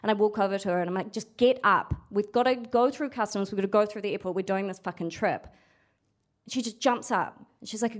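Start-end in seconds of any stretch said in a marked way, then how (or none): 1.1-5.5 mildly exasperated retold order; a touch of irritation, pushing someone to move; pissed off. Daughter ordering runaway woman through the airport, pissed off. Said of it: "I'm getting pissed off".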